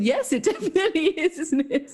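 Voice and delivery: high, mocking agreement; sarcastic. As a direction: agree with mock sweetness. Sarcastic reply while still laughing.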